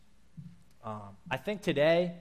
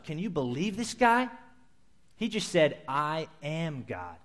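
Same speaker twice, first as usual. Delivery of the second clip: irate disbelief. Retold or imitated. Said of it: "They're irate, upset".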